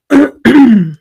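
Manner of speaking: clearing a rough morning throat; quick throat clear before talking. Real, not acted. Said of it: "I got my morning voice going on here".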